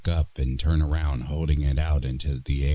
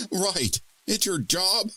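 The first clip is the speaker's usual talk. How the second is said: incredulous; 13 semitones higher than usual. Acted. Incredulous woman.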